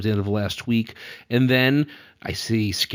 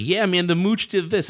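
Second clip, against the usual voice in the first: Mooch impression; 7 semitones higher than usual. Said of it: "He'll be like".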